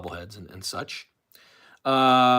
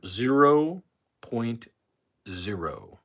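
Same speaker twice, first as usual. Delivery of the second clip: dragged-out count; much slower than usual. Acted. Deadpan punchline on attendance.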